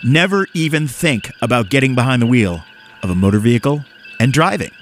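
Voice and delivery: lightly hammed-up announcer read with swinging pitch; radio voice. Host reads safe-driving advice to listeners in radio voice. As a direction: deliver it as a public service announcement. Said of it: "I'm gonna do it in my radio voice".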